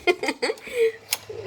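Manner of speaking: high squeal of delight with a laugh; excited woohoo. Real, not acted. Grandma cheering at the early package, high and laughing. Pink box arrives early.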